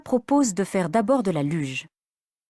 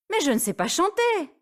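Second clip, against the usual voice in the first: shy protest; 10 semitones higher than usual. Acted. Elsa shyly refuses.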